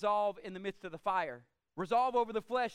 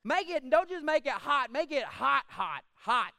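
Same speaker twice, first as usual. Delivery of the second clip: mock furious king; 3 dB louder than usual. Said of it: "He said this".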